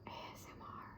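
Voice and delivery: walang boses na bulong; pabulong. Shown as a demonstration. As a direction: ibulong nang marahan ang bawat titik. Pabulong na pagbanggit ng ASMR. (mahinang bulong ng ASMR)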